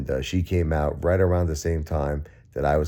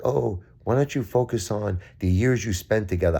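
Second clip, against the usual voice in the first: mocking people's advice; 6 semitones higher than usual. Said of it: "stop saying".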